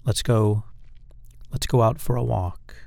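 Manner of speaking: "go" and "walk" brought down firmly; pronounced command inflection. Shown as a demonstration. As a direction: state it as a command, falling on "walk". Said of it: "Not that pronounced".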